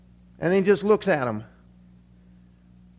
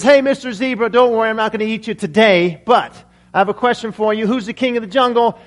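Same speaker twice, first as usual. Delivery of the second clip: lightly voiced boastful lion, a touch louder; prideful lion; 4 dB louder than usual. Lion quizzing a zebra on who is king, mild bluster. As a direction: challenge the zebra with mild swagger.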